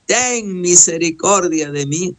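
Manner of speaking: drawn-out plea, mildly acted; a blind man's clamour, half-voiced; crying out for mercy. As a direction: stretch out the name, then ease off. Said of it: "estaba gritando, estaba clamando".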